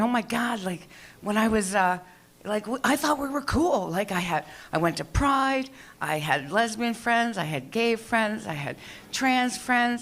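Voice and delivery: mock-worried plea, dragged out; mock panic. Comic fretting over pronouns, high slow mock panic.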